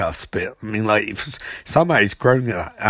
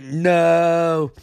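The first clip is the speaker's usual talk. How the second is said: higher, drawn-out mock cry; dramatic protest; 6 semitones higher than usual. Barry pleading as his power is taken, dramatic protest. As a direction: stretch it out on a high held note. Acted victim's protest in retold fight.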